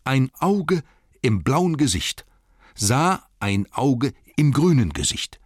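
high, loud hobbit recital; hobbit riddle. Acted. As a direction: pose the riddle proudly.

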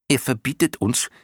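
high little moth voice; explaining clown moth. A narrator's reading. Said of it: "erklärte die erste Motte den anderen". (hohe, erklärende Mottenstimme)

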